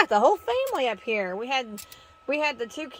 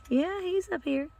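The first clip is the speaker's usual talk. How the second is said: ordinary talk, nothing marked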